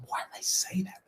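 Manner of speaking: hushed, whispered thought to yourself; inner-voice whisper. Retold or imitated. Wrestler privately regretting his words to Nash, whispered. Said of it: "It was just in my head".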